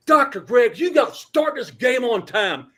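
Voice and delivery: high, loud, slow yell over the band. Retold or imitated. Pleading with the band director over the music, high slow yell. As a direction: shout each word to be heard over the music. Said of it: "and I'm yelling".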